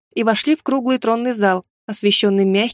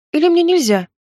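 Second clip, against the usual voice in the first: mock disappointment; 7 semitones higher than usual. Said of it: "изобразила я огорчение".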